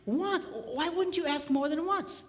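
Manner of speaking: acted disbelief with a rising end; mildly incredulous retelling; amazed. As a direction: question it as if you can't believe it. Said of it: "I was amazed".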